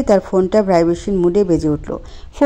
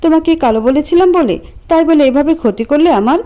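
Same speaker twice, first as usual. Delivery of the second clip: raised, tearful accusation; crying loudly; 3 semitones higher than usual. Acted. Priya crying and shouting at Anto. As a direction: cry it at him. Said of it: "কেঁদে কেঁদে জোর গলায় বলল".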